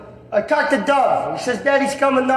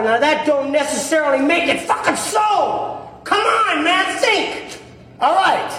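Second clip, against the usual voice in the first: angry shout; 5 semitones higher, slower than usual. Acted. Furious argument about beating prisoner.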